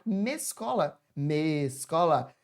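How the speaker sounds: "Mescola" with the M stuck onto escola, then drawn out slowly; mocking wrong linkage. Shown as a demonstration. Teacher showing why the hyphen is needed, "Mescola" exaggerated as a wrong blend. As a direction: repeat "Mescola", stretching it the second time. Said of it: "eu não posso falar circumescolar".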